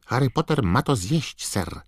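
high, squeaky elf urging; croaking house-elf. A narrator's reading. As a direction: squawk like an urgent house-elf. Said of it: "zaskrzeczał Zgredek". (skrzeczący, wysoki głos skrzata)

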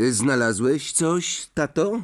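high, drawn-out, keen question; eager question. A narrator's reading. Son asking father about the night's finds, eager. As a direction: ask with breathless interest, rising high. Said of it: "zapytał z przejęciem Fred".

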